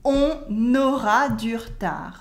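"On aura du retard" as "on-naura dur-tar"; liaison and dropped E. Shown as a demonstration. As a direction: model "On aura du retard" for repeating, schwa cut. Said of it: "Repeat after me".

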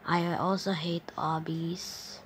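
whispered gripe. Real, not acted. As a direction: breathe it out as a whisper. Whispered complaint.

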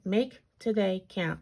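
talking around new braces; words slurred by braces. Real, not acted. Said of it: "I don't know why I can't talk today. These braces".

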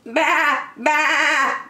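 high, wavering sheep baa; high-pitched bleating; sheep's bleat. Acted. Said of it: "bleated the sheep".

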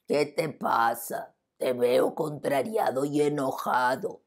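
slow hippo voice; lightly voiced calm hippo. Hippo to the lion, slow gentle concern. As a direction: ask slowly, kindly.

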